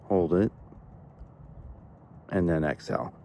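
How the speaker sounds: calm guided breathing instruction; guided meditation. Real, not acted. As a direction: lead listeners unhurriedly through each breath.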